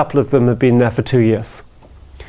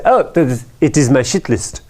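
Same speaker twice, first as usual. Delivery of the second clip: put-on French accent. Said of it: "it's France, after all".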